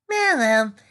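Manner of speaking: loud, pointed remark for gossips to hear; loud enough to overhear. A narrator's reading. Girl speaking up loudly for gossips to hear. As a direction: say it so they hear. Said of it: "said loud enough".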